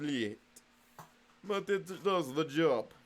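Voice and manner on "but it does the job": put-on slow repeat in a light Russian accent; mock Russian accent. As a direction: say "But it does the job" again like a comrade. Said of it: "stop the Russian voice".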